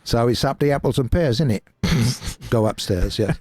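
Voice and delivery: hammed-up London Cockney. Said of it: "this Cockney".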